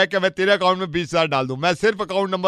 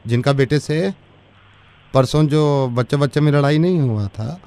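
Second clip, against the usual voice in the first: servant voice; 4 dB louder than usual. Acted. Servant calling angry mother about kids' fight. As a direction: play a rustic household servant. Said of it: "उनके घर हम नौकर हैं".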